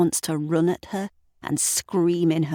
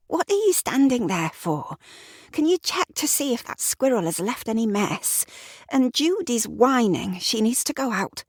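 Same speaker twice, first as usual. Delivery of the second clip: higher, impatient Sarah voice; Sarah voiced higher, irritated; irritated wife; 8 semitones higher than usual. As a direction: snap questions at him, rushed.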